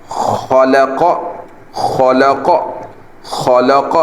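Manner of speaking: خلق with a full, heavy خ and ق; heavy letters. Shown as a demonstration. Teacher drills students on heavy letters, thick and full. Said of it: "اس کو موٹا پڑھنا ہے".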